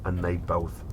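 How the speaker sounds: measured storyteller reading; story narration. A narrator's reading. Host reads a strange case to his brother in storyteller voice.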